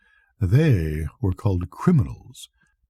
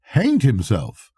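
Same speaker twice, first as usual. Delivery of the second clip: shocked cry; 5 semitones higher, slower than usual. Acted. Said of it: "I cried".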